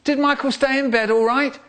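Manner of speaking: mum's voice. Retold or imitated. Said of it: "My mum calls out".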